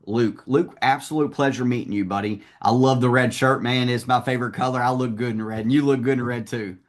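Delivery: lightly voiced chummy salesman; corny sales greeting. Shown as a demonstration. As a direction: greet a customer with mild, corny friendliness. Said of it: "be corny".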